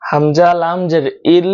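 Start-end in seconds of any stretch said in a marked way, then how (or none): 1.4-1.5 ইল with a long, sustained l; held lam. Shown as a demonstration. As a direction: linger on the final ল of ইল. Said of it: "এটার উচ্চারণটা একটু ধরতে হয়". (ইল-এর ল ধরে রেখে ধীরে)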